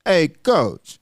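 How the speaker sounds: imitating a friend's Southern drawl. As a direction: greet him in a lazy Southern drawl. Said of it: "a strong Southern drawl".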